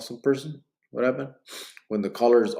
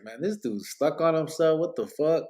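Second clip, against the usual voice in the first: higher-pitched imitation of baffled critics; mock disbelief; 6 semitones higher than usual. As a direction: put on a higher, incredulous newcomer's voice. Imagined new viewers mocking him.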